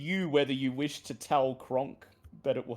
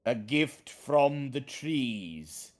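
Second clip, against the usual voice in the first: talking tree; 4 semitones higher, 5 dB louder, slower than usual. Acted. Treant speaks.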